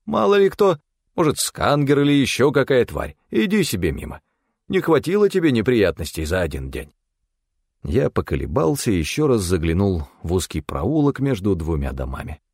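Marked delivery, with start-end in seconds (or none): 0.0-6.9 higher, agitated urging; worried. A narrator's reading. Stefan tells Til to keep walking, worried and higher. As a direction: urge them on, voice raised in pitch with worry. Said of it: "тут же забеспокоился Стефан".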